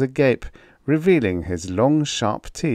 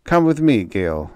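louder, higher order with a lift; 4 semitones higher, 5 dB louder than usual. A narrator's reading. Captain ordering the cringing Venusian out, firm loud order. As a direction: call the creature to follow. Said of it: "Arlen ordered".

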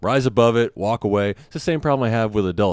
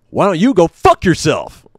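louder, higher angry snap; angry retort; 9 semitones higher, 9 dB louder than usual. Retold or imitated. Dad losing his temper at a mouthy kid, loud and higher. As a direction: cuss the kid out. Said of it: "and I got mad".

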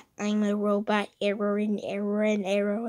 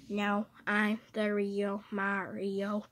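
softer, firm denial; quieter insisting; 7 dB quieter than usual. Acted. The copy Mario denying it back, softer and firm. Two Marios argue who's real.

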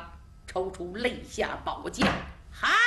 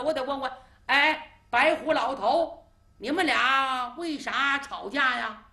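put-on child's voice; 4 semitones higher than usual. Child lays down rules.

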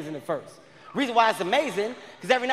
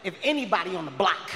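mock threats; 3 semitones lower than usual. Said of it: "I was making threats".

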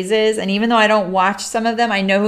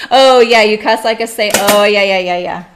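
put-on drunk voice; 9 dB louder than usual. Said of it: "A drunk and say".

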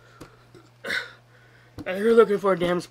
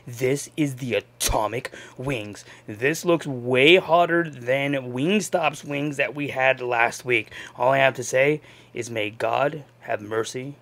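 ominous voice; 6 semitones lower than usual. Acted. Ominous intro to Atomic wings.

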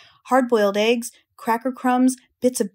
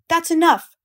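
higher, louder rat outburst; cry out; 7 semitones higher, 4 dB louder than usual. A narrator's reading. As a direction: cut the sheep off sharply. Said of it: "cried Templeton".

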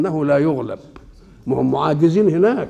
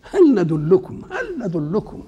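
drawn-out sneering echo of the disbelievers; mock their words with a rising sneer; mocking imitation; 3 semitones higher, slower than usual. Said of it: "كلمة".

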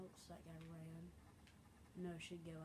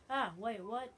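loud, higher, puzzled burst; startled confusion; 4 semitones higher, 9 dB louder, slower than usual. Real, not acted. Player being shot from behind, startled confusion. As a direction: blurt it out, caught off guard.

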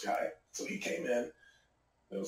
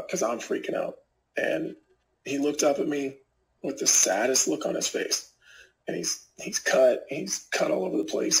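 ordinary delivery

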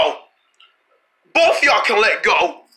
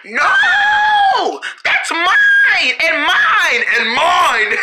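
high, stretched possessive wail; squabbling protest; 5 semitones higher, much slower than usual. Pretend. Sister refusing to share bacon, whiny high protest. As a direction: cry out high, then ease down.

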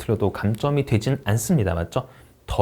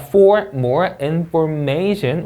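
slow "for more information" lifting up at the end; rising tune; 4 semitones higher, 4 dB louder, much slower than usual. Shown as a demonstration. Teacher modeling a rising end on a prepositional phrase. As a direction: stretch "for more information" and rise. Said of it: "올려 읽고요".

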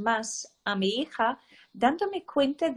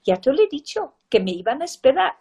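a touch louder, quick know-it-all reply; smug child; 3 semitones higher, 5 dB louder, faster than usual. Retold or imitated. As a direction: tell mum you told her so.

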